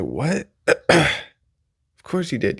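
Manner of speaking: slow, drawn-out sarcastic voice; mock doubting listener. Imagined listener scoffing at the comedian, slow sarcastic voice. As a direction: act out a listener who says of course you did, very slowly. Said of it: "You be like".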